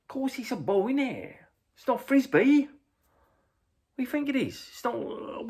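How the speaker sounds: high, loud exasperated fan; mock indignant terrace shouting; imitated yelling. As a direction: holler it as if it's obvious. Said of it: "yelling out".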